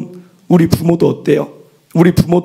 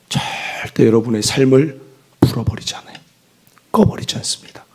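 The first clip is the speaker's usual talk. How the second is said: whispered assurance; 6 semitones lower than usual. Acted. Soft assurance in sermon.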